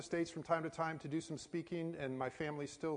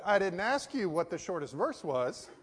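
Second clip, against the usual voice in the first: louder, pointed correcting of someone; retold insistent correction; 2 semitones higher, 5 dB louder than usual. Passport officer to pastor who answered wrongly, insistent. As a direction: act out an official rejecting an answer.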